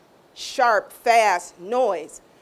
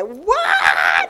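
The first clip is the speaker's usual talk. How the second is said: surprised what; 5 dB louder than usual. Retold or imitated. Hears God's surprising words.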